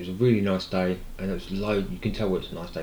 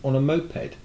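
tag incredulous; 8 semitones higher than usual. Retold or imitated. Challenges the builder in retold exchange.

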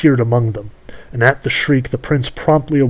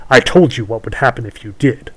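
witch voice; 5 dB louder than usual. Acted. Witch speaks to prince.

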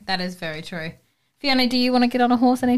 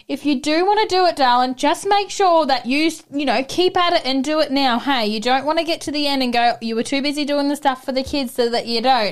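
higher, gentle mother-in-law voice; imitating a loving mother-in-law, lightly; 5 semitones higher than usual. Mother-in-law gently urging her to ride, lightly imitated. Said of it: "my mother-in-law so lovingly just said".

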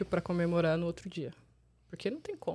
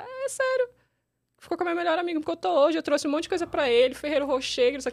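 put-on higher crying girl voice; 9 semitones higher, 3 dB louder than usual. Voicing the crying passenger.

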